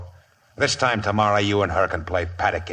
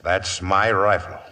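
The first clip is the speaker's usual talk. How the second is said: slow, deliberate threat; slow warning; slower than usual. Acted. Outlaw boss repeats his claim to Waco, slow and menacing. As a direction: lay each word down slowly, a warning. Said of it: "Then I'll say it again".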